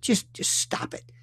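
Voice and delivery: mock parental hush, unvoiced then soft; a quiet imagined scold. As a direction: hiss the scolding they never said. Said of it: "They never said".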